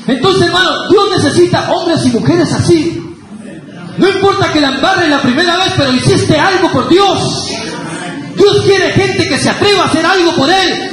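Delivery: rally the church to dare for God; fervent preaching. Acted. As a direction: pastor urging the brethren to act for God, fervently. Preacher exhorts the congregation.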